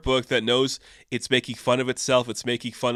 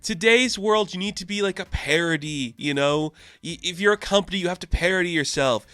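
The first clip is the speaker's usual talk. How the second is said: smug executive lecture; 3 semitones higher than usual. Retold or imitated. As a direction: lecture Thor like a slick CEO. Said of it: "Dario just being like".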